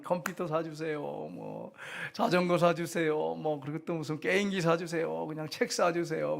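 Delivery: lightly mimicked child nagging for presents; drawn-out mock pleading; child begging. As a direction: reel off a kid's wheedling demands, stretching the endings. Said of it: "뭐 사달라고 그리고".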